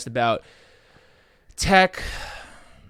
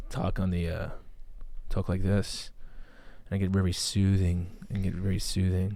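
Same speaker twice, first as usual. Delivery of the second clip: slightly lowered soothing voice; buttery, soothing voice; 3 semitones lower, 4 dB quieter than usual. Shown as a demonstration. Host showing off his voice instead of countdown, soothing. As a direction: settle into an easy, buttery tone. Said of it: "hear my buttery voice".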